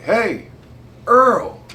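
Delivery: high, loud hail to a buddy; calling out. Retold or imitated. Officer hailing his buddy at a party, calling out. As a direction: holler the name across the party.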